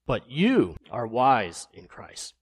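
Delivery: slow, mocking praise; sarcastic reading. Shown as a demonstration. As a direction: say it with heavy irony. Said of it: "Let me read it in that way".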